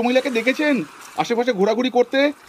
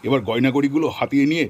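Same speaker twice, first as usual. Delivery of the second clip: gloating villain; 7 semitones lower than usual. Acted. Villain gloats while burying her.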